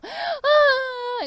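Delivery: high, loud, held mock sob; mock ghostly wail. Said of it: "슬피 우는 귀신의 곡선". (귀신이 곡하듯 높고 크게 우는 소리)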